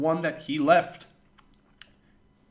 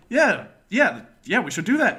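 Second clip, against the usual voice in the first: loud, bouncing higher yeahs; eager retold agreement; 6 semitones higher, 9 dB louder than usual. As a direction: act out jumping at the idea.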